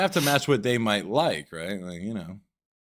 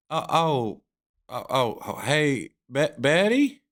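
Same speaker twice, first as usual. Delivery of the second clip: stuttering caller; 2 semitones higher, slower than usual. Retold or imitated. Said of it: "I put a little extra stutter".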